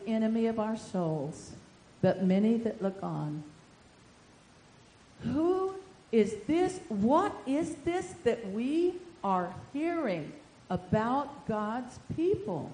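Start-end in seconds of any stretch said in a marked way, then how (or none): 5.2-12.7 slow, drawn-out prophetic question; prophetic cry. Acted. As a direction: proclaim it slowly as a prophecy. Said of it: "we will hear this cry".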